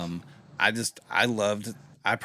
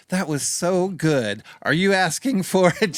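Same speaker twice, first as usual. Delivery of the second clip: higher, louder, slow shopkeeper voice; mock German shopkeeper, pitched up; market lady; 8 semitones higher, 7 dB louder than usual. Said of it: "and the lady go".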